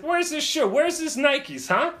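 high, loud angry father; gruff dad voice. Retold or imitated. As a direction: demand it like a cranky dad. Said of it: "he's like".

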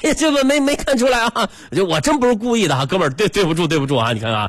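high, flustered stammering sorry; a touch of panicked over-apologizing; flustered apology. Retold or imitated. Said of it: "我当时崩溃呀". (惊慌失措的连声道歉)

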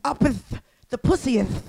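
halting mock-biblical pronouncement; a hint of solemn preacher, pausing between phrases; mock scripture. Comic finishing a bawdy blessing, lightly mock-scriptural delivery.

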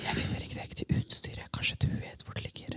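hushed workplace query; very soft, fully whispered; whispering. Pretend. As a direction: whisper it like a secret. Acting out whispering at work.

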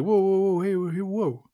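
hammed-up urgent hail to halt the soldiers; urgent mock call to stop. Runs over calling to stop them.

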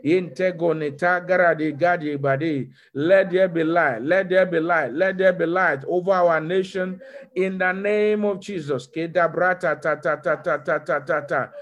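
rapid rhythmic glossolalia; speaking in tongues. Acted. Pastor praying in tongues before the church, fervent. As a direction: pour out syllables in prayerful flow.

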